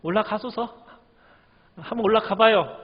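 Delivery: lightly tossed-off mocking encouragement; sneering sarcasm. Shown as a demonstration. Preacher demonstrates the prophet's answer to Ahab, mildly sarcastic. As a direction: pretend to encourage, with mild sarcasm. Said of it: "그 빈정대는 투 있죠".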